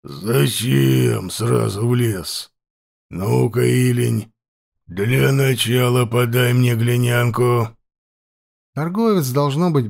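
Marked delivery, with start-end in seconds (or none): 0.0-7.7 put-on slow, rasping voice of an old chief; hoarse chieftain. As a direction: question him slowly and hoarsely. Chieftain speaks from dark.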